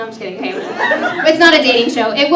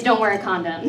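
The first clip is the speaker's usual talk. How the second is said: lower, softer Mexican-accented line; 6 semitones lower, 6 dB quieter than usual. Shown as a demonstration. Comic showing their one accented phrase, Mexican accent. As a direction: slip into a Mexican accent, dropped low. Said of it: "The only word I say with an accent".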